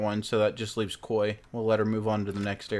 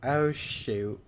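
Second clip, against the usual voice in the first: put-on wholesome 1950s kid; much slower than usual. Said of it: "Oh, darn".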